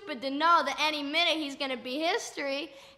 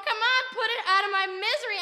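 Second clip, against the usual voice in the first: raised, urgent acted plea; yelling; 3 semitones higher, 4 dB louder than usual. Onlooker begs him to end the misery, acted yelling. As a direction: call out impatiently over the commotion. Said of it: "I'm yelling".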